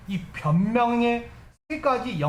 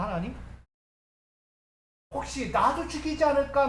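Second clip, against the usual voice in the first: mildly raised, protesting appeal; resentful complaint; 3 semitones higher than usual. Acted. Preacher as Moses protesting to God that he is a murderer, resentful. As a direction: plead your unfitness with a touch of reproach. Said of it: "근데 원망해요".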